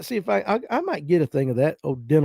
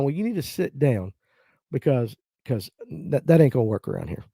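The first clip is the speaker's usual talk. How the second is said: stern granny; 3 semitones lower, 4 dB quieter than usual. Retold or imitated. Granny telling her grandson to sit down and eat, low and stern. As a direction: lay down the house rule. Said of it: "granny scolding".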